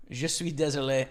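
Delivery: English-accented French apology; foreign accent in french. Shown as a demonstration. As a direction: say it like a learner of French. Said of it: "Had to use that pretty often".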